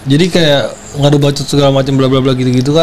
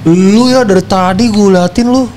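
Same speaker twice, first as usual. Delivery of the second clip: raised, slow, drawn-out scolding; retold angry outburst; 7 semitones higher, slower than usual. Girl's friend is told off, slow raised anger. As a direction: spell each word out as a heated accusation. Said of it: "Gua bilang gitu ke si cewek".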